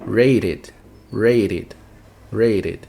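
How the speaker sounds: "Rated" in two syllables, RAY-rid, with a tapped T. Shown as a demonstration. Teacher modelling the first case, "Rated" ending in id. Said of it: "vai ficar com som de I D no final".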